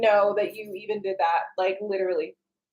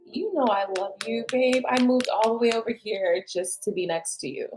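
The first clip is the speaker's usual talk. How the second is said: tender. Shown as a demonstration. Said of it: "You gotta say it like that".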